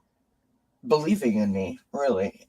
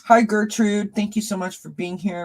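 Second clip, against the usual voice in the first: bright greeting; 8 semitones higher than usual. Real, not acted. Greeting new viewer in chat.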